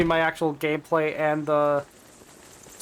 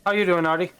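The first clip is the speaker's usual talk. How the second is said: a hint of a cartoon dad voice, half by accident; greeting a chatter, lightly sliding into a cartoon dad; slipped into Peter Griffin; 2 semitones higher, faster than usual. Real, not acted. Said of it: "like, Peter Griffin for a second there".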